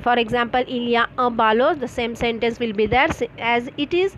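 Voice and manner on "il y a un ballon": il y a un ballon with a gentle rise on ballon at the end; question intonation. Shown as a demonstration. Teacher showing students how a statement becomes a question, rising on ballon. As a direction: lift the voice on ballon to make it a question. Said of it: "louder your voice when it comes at the end".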